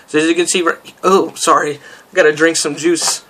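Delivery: talking with a sore throat. Real, not acted. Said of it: "my throat is, uh, sore".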